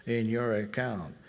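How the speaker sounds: slow, mechanical bank machine voice; robot teller. Retold or imitated. Teacher imitates a bank robot teller, slow and mechanical. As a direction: read it out like a robot teller, no feeling. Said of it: "the robot teller".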